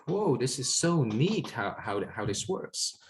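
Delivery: slow, high whoa of wonder, fading; amazed. Retold or imitated. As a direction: marvel at it slowly. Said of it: "So I was like".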